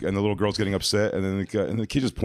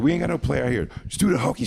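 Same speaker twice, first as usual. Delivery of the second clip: mock yell; 7 semitones higher, faster than usual. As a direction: yell it up high like the mom. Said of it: "She kept yelling".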